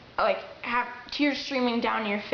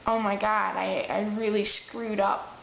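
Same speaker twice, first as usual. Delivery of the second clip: quavery, upset; 3 semitones lower than usual. Shown as a demonstration. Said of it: "your voice sounds quavery".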